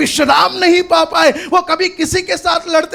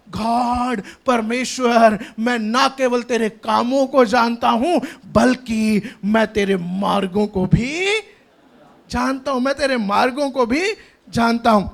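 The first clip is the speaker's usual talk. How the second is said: low, measured, earnest declaration; reverent address; 6 semitones lower, 3 dB quieter than usual. Acted. Moses standing before God, low and reverent declaration. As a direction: speak low to God, drawing out key phrases.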